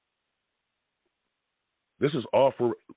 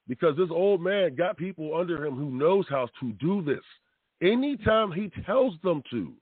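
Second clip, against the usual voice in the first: higher, emphatic scolding of the doubters; telling people off; 7 semitones higher than usual. Retold or imitated. Fan warning critics of the old man, hammed-up scolding. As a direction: wag a finger at the critics, lightly hammed. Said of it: "I keep telling people".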